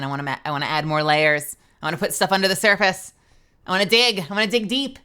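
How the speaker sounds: from firm to loud and fired up; building passion. Real, not acted. A voice actor venting at flat roles, rising to a loud, eager push. Passionate rant about adding layers.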